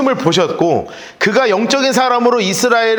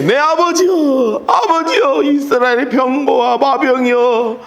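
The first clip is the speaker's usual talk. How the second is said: higher, slow anguished call; crying out; 3 semitones higher, slower than usual. Retold or imitated. Elisha shouting after Elijah as he rises. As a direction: cry out the verse to the departing prophet. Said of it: "소리 지르되".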